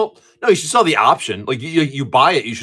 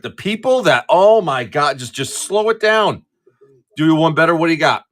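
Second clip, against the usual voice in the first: exasperated rant; 4 semitones higher than usual. Real, not acted. Driver fed up with parking lot speeders, exasperated rant. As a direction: rant with stretched, pleading words. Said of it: "this is an old man rant right now".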